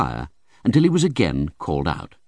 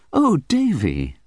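remonstrating; 9 semitones higher, slower than usual. A narrator's reading. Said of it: "remonstrated my mother".

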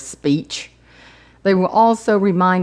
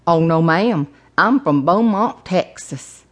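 lightly voiced Texas accent; a hint of an older Texan gentleman; older gentleman's accent. Driver answers his passenger, light older Texan accent. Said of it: "older gentleman with a unique accent".

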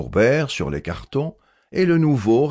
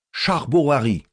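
appel un peu plus haut et plus fort; lancé à pleins poumons; 5 semitones higher than usual. A narrator's reading. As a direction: comme pour appeler quelqu'un au loin, modérément. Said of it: "lança à plein poumon, comme pour appeler quelqu'un". (le nouveau lance son nom comme un appel, un peu plus haut)

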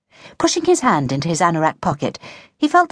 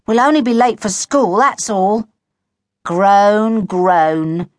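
whiny, higher-pitched complaint; mournful grumble with mock groans; grumbling; 4 semitones higher, 4 dB louder, much slower than usual.

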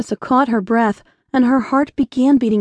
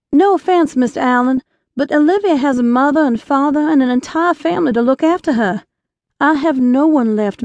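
put-on earnest young woman. Young woman pleads in story.

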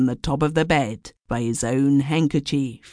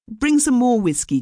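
raised voice calling waiter; 10 semitones higher, 4 dB louder than usual. A narrator's reading. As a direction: call loudly for the waiter. Stout commercial calls waiter.

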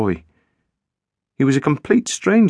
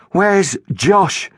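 higher, cold and demanding; cold question; 9 semitones higher than usual. A narrator's reading. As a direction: ask it icily. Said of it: "she said coldly".

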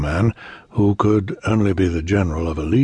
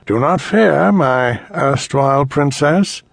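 cold rasping evil emperor; 8 semitones higher, 5 dB louder than usual. Acted. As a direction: sneer it with false comfort. Emperor taunts princess.

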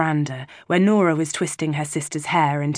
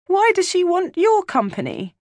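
put-on jealous child; 3 dB louder than usual. Jealous little sister questions.

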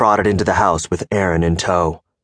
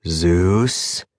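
evenly. A narrator's reading. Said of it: "he said evenly".

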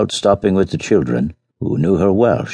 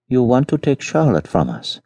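alarmed peasant woman; 8 semitones higher than usual. Acted.

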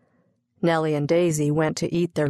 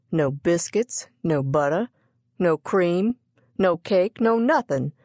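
exasperated listing; 2 semitones higher than usual. Acted. Cook exclaims over what they lack.

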